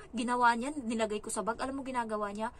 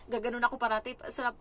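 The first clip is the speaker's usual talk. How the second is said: usual speaking voice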